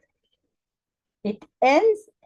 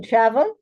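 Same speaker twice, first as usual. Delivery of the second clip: "travel" with "tra" strong and "vel" light; stress on first syllable. Shown as a demonstration. Teacher explaining the American English exception, stress on "tra" in "travel". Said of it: "the stress is on the first syllable".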